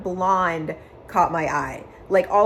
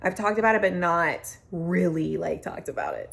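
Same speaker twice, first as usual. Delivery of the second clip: getting emotional. Real, not acted. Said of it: "I'm getting emotional talking about it".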